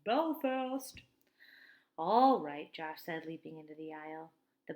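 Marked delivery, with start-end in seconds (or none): 0.0-1.0 loud, higher driver's call. Acted. Bus driver calling the stop to passengers, loud. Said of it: "the bus driver called out". 2.0-2.7 much louder happy shout; cheer. Acted. Josh cheering as he leaps into the aisle, loud.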